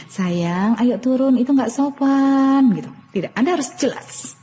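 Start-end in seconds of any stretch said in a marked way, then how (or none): 0.1-2.8 drawn-out coaxing scold; over-gentle doting mother, slowly; mildly pleading sweetness; pampering plea, slowed. Shown as a demonstration. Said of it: "gitu ya".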